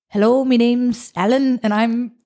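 hammed-up British voice note; mock British accent. Woman mimics a dating profile's voice note, mock British accent. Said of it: "you've got a British accent".

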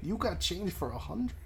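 soft, halting impression with swooping pitch; Christopher Walken. Mister Hotshot asking for change, hammed-up Walken impression. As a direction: exaggerate the odd lilt, rising at the end. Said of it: "doing a Christopher Walken impression".

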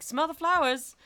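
a hint of airy mock girlishness; wisp of a lady. Mocking the book's Clarice character, lightly voiced wispy lady. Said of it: "just a wisp of a lady".

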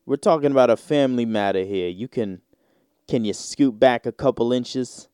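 mock Italian-American mobster accent; thick Italian accent. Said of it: "that thick Italian accent".

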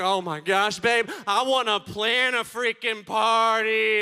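loud, slow excited wife's shout; the wife yelling she wants a party. Retold or imitated. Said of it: "My wife's like".

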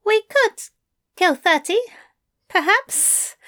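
tight, high, through gritted teeth. Acted. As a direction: force it through clenched teeth. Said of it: "through gritted teeth".

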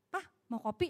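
soft, rising question; gentle offer. Shown as a demonstration. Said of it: "Intonasi beda". (bertanya dengan lembut)

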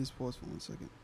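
soft unvoiced whisper aside. Real, not acted. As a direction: whisper it off to the side. Asks group to pause recording.

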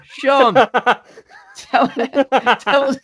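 loud, laughing call to his mate. Real, not acted. Host loudly calls on his friend Sean, laughing. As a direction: shout across to Sean to take over.

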